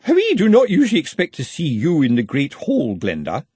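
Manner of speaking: high, forceful severe housekeeper. A narrator's reading. Housekeeper catches Glenda in the Great Hall, severe. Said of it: "a severe voice behind her said".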